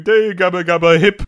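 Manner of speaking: loud nonsense babble; babbling. Retold or imitated. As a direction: gabble it like a hypnotized fool. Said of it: "close-up panel of him going".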